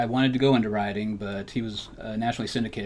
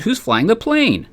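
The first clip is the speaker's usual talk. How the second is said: a higher, slow, horrified question; alarmed shock; 12 semitones higher, 12 dB louder, slower than usual. Acted. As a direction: gasp it out as if no one is at the controls. Panics seeing the pilot leave.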